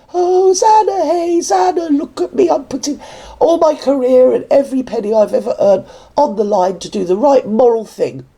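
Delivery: high, pious hammed-up proclaiming; mock saintly martyr. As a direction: play a preening martyr singing her own praises. Mocking a self-declared saint.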